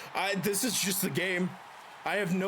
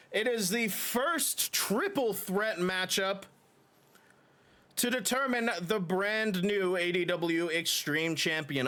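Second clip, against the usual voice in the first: formal match introduction, slow names; ring announcer. Acted. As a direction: announce the next match to the crowd. Introduces next match on stream.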